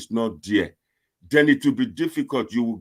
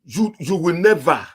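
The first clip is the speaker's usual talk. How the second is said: mocking retort; 8 semitones higher, 6 dB louder than usual. Real, not acted. Mocking rival's claim in argument.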